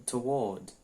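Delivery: British-style "toward", to-WAWD; British pronunciation. Shown as a demonstration. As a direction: say toward as "tuh-WAWD", two syllables. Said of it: "No inglês britânico". ("toward" britânico, "tu-uód")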